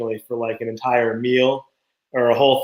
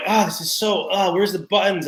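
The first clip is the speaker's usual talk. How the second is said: put-on kids; 3 semitones higher than usual. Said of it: "the kids were like".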